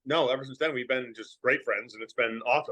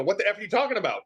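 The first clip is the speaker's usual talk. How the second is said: mock cussing; 5 semitones higher, faster than usual. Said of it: "you have to be conscious".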